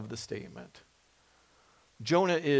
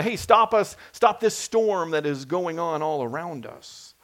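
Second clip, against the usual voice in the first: sailors calling out. Retold or imitated. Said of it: "when they're calling out to God".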